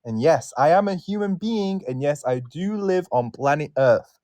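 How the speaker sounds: a light mock of a stiff self-introduction; mocking self-intro. Host parodying guests who state they are male, lightly mocking. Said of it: "some people that genuinely do that".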